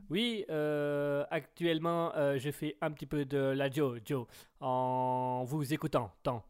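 mock Chinese accent, echoing the last syllable; hesitant little Chinese woman with a verbal tic; petite Chinoise. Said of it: "On va faire la petite chinoise". (accent chinois caricatural avec tic verbal)

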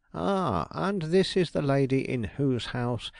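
bright, lifted "Ah" of welcome; a detective's show of warm welcome; mock-hearty greeting. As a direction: greet her with put-on enthusiasm. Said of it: "he exclaimed".

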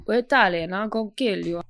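lightly put-on Italian gangster threat; hint of hammy Italian-American mobster; mock Italian mobster accent. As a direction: imitate a bad Don Corleone Italian accent. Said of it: "Why is he doing that voice?".

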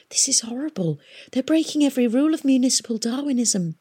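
hurried horrified whisper. A narrator's reading. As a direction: whisper it in shock, speeding up. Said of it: "Tom whispered".

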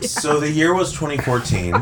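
soft hypnotic cult leader voice; tranquil storyteller voice. Acted. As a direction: ease in softly, like a cult leader. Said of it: "I love his tranquil".

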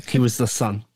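whispered self-correction; sheepish whisper. Real, not acted. Corrected by the listener, he whispers the fix. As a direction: hush it out, embarrassed. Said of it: "You said daughter".

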